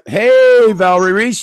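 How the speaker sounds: loud, high shout to get attention; calling out. Real, not acted. Streamer hails a viewer in chat, calling out loudly.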